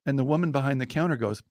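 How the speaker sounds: normal talking voice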